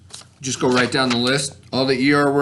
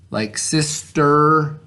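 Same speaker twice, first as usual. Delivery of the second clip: sister drawn out slowly with the er ending held; stretched example word; much slower than usual. Shown as a demonstration. Teacher stretches sister slowly for the kids. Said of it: "er has the er sound".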